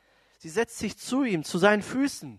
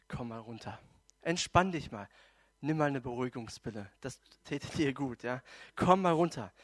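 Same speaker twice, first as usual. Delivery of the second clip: easygoing, mostly lowered voice; relaxed calming; 5 semitones lower than usual. Acted. Jesus telling stressed Martha to unwind, relaxed. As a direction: talk someone down without any heat. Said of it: "Jesus ist ganz entspannt".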